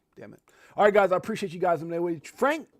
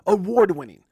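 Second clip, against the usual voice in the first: booming announcer call; 9 dB louder than usual. Shown as a demonstration. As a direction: shout it out loud, hype announcer. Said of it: "I should start saying that".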